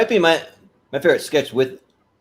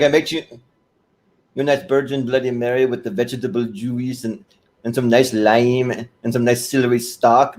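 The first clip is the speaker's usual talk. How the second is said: put-on foreign accent, lingering on the last items; Serge's accent. Serge offers a Virgin Bloody Mary, foreign accent. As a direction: imitate a fussy foreign-accented host. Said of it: "the way that he does the accent".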